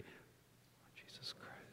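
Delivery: slow whispered breath prayer. Shown as a demonstration. Pastor leading congregation in breath prayer, whispered. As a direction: whisper it very slowly on the intake of breath. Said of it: "you're gonna whisper".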